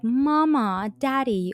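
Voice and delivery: high, sugary call to parents; lightly voiced prim girl; mock-sweet daughter. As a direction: coo it like a pampered child.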